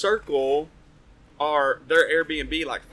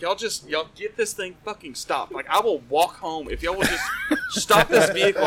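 louder, higher pleading yell; frantic demand; 5 semitones higher, 6 dB louder than usual. Retold or imitated. Passenger yelling at the family to stop the vehicle. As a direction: demand they stop the car now. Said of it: "And, and I'm like".

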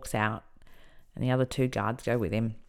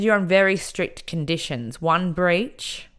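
stern warning; 3 semitones higher, 3 dB louder, slower than usual. Retold or imitated.

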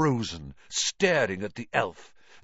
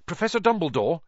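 hurried; 5 semitones higher, 3 dB louder, much faster than usual. Acted. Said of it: "he said hurriedly".

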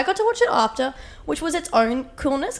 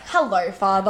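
lower, formal "Hello, father"; posh British father; 4 semitones lower than usual. Retold or imitated. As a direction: say it stiffly like a British child. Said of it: "Father's like".

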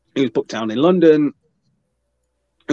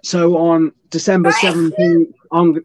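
slow, slightly louder imitation of a promo read; lightly hammed-up promo announcement; mock wrestling promo; 3 semitones higher, 3 dB louder than usual. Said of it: "It was very much like".

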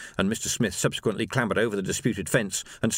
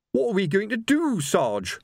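wailed; 10 semitones higher than usual. A narrator's reading. Corporal wails to the sergeant in panic, high-pitched. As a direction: wail it out helplessly. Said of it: "wailed Colon".

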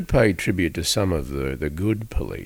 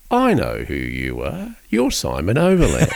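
laughing reveal; 3 dB louder than usual. Retold or imitated. Recognising the stranger.

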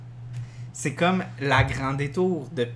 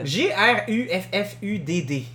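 spelled out; 2 semitones higher than usual. Shown as a demonstration. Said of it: "spelling the name out".

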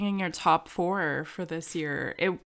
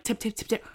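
imitating dog paws; 3 semitones higher, faster than usual. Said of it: "They're just, like".

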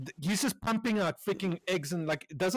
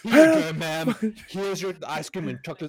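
put-on obliging waiter; hammed-up eager-to-please; fake service sweetness; 6 dB louder than usual. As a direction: serve it up with exaggerated politeness. Acted sugary waiter after cursing.

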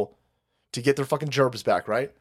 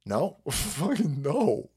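ordinary delivery

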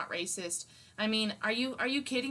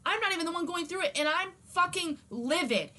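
real anger; 4 semitones higher than usual. Real, not acted. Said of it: "I'm pissed".

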